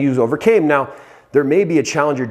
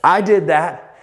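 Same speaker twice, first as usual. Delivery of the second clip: pumped self-talk; 5 semitones higher than usual. Retold or imitated. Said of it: "I'm like".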